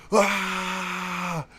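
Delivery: soft, drawn-out fan groan; a hint of crowd yell; mock crowd noise. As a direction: make the stands noise. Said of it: "people that are just".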